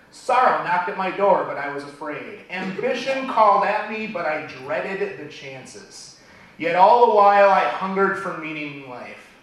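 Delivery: dramatic poem reading, swelling on key words; poem recital. Acted. Speaker recites a beloved poem to the audience, dramatically. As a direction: let each phrase surge, then fall away.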